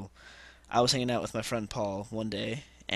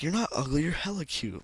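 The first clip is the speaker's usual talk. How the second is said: high-pitched imitation of a girl; girl's compliment; 6 semitones higher than usual. Girl contradicting his ugly claim, high mock-girl voice. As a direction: voice her higher as she insists.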